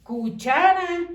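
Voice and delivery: "Cuchara" drawn out slowly; slow syllable by syllable. Shown as a demonstration. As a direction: stretch "Cuchara" so each syllable shows. ("Cuchara" lento, sílaba por sílaba)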